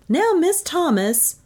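high, slow simpering coo; simpering murmur. A narrator's reading. Flattered inventor to his new admirer, simpering murmur. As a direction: simper it slowly, pitched high. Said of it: "as he murmured".

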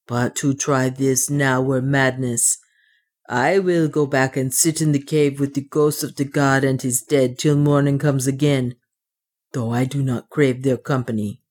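lightly voiced dwarf with accented English; measured, slightly foreign-sounding dwarf; superstitious dwarf. Otter reasons with himself in the cave, lightly accented dwarf voice.

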